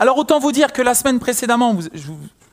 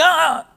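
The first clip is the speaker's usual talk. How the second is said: mock labour cry; 8 semitones higher than usual. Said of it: "Elle avait une contraction".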